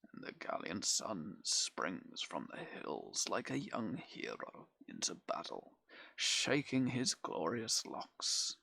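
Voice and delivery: a hint of a lordly nobleman, now voiced aloud; lightly voiced Audley.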